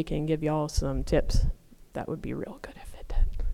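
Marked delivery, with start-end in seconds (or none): 1.9-3.4 whispered aside. Real, not acted. Aside to the audience about the talk, whispered. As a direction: drop into a whisper.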